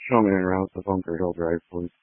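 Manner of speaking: crackly two-way radio; police radio. Real, not acted. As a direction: voice through a handheld radio. Fire unit radio transmission.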